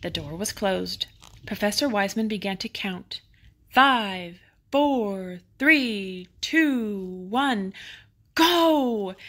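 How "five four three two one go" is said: countdown. Acted. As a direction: count down and launch it. Launch countdown.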